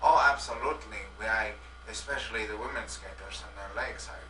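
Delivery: lightly put-on Russian accent; a hint of a Russian leader. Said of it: "I am Russian Boris".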